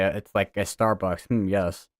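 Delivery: lightly put-on posh British; mock British "hmm, yes"; a hint of a British accent. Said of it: "the two accents that I regular are".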